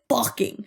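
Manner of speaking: "fucking" hit hard, falling at the end; stress on fucking. Shown as a demonstration. Quoting the staff member's insult to viewers, stress on "fucking". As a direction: lean on the word "fucking". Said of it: "I'm emphasizing that he said".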